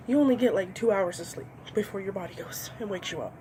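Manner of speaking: ordinary talk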